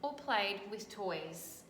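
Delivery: put-on bright, lively read-aloud for children; storybook reading. A narrator's reading. Teacher reading a picture book to children, lively storytelling. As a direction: tell the story to a class of kids.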